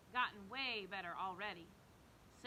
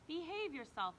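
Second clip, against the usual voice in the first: stern warning; 5 semitones higher, 4 dB louder than usual. Acted. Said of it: "Mom said".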